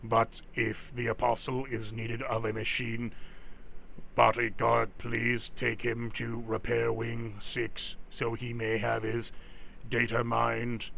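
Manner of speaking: steady mechanical guard voice; robot voice. Acted. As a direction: speak as a stiff security robot. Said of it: "Oh, that robot voice".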